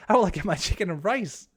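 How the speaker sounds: the same whiny line again in a goofy character voice; put-on silly voice. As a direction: ham up the rice complaint in a funny voice. Repeats the chat line in a put-on voice.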